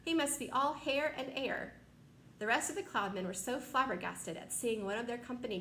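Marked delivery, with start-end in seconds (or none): 0.0-1.8 delighted. Acted. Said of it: "watching him with delight".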